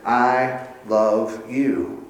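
slow, soft, loving whisper of God's words; tender I love you. Acted. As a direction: say it slowly and gently, as God to his people. God's love spoken to people.

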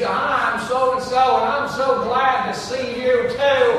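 exaggerated Southern accent for laughs; thick Southern accent. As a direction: imitate a girl's heavy Southern accent. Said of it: "with the thickest Southern accent in the world".

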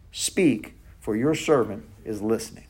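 softly, with awe, as if God is in the room; a low, quiet whisper-like answer to God; hushed reverent reply. Retold or imitated. Samuel's answer, retold hushed.

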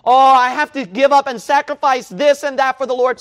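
high, loud whining mock of a reluctant believer; mock whiny voice of a halfhearted Christian; mocking whiny complainer. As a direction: sneer out the lazy excuse. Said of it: "So what?".

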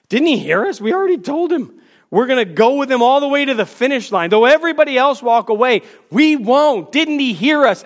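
growing indignation. Retold or imitated. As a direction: work yourselves up, offended. Disciples grumbling, growing indignant.

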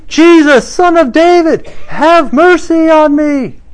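loud, high desperate cry for mercy. Retold or imitated. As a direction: cry out to be heard over the crowd. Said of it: "he cried out".

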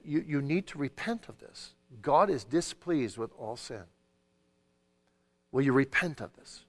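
firm but gentle, asking for repentance; calm but earnest. Shown as a demonstration. Father urging child to repent, calm but earnest. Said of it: "in a calm but earnest voice".

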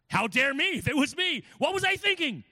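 high, loud, pained self-reproach; anguished outcry. Acted. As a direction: cry out against yourself in anguish. Preacher voicing Paul's anguish.

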